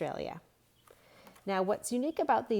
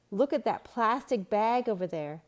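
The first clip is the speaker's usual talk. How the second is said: louder, higher pointing call; alarmed child voice; 4 semitones higher, 6 dB louder than usual. A narrator's reading. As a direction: spot litter and call it out. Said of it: "Luke quickly ran over".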